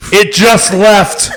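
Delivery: slow, high, laughing through it; squeaky laughing delivery. Real, not acted. Laughing at own fart story.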